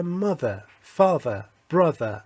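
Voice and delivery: "mother", "father", "brother" with th buzzed like a weak z; voiced th. Shown as a demonstration. Teacher showing the second th sound, voiced like a weak z. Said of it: "شبیه یه حالت ز ضعیف شده".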